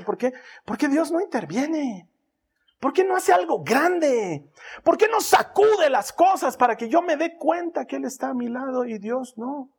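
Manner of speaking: rising to a loud, high anxious cry; anxious pleading questions. Retold or imitated. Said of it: "se pregunta y dice".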